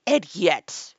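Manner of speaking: loud, impatient outburst; impatient queen. A narrator's reading. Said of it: "tossing her head impatiently".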